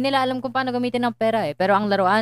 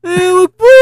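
put-on high, loud pleading child cry; tearful shouted confrontation; 11 semitones higher, 12 dB louder, slower than usual. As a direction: beg not to be hit. Child begging, radio drama.

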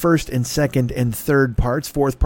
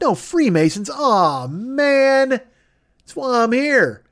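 mock eager; 5 semitones higher than usual. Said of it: "And I'm like".

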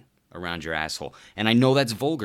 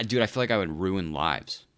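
normal talking voice

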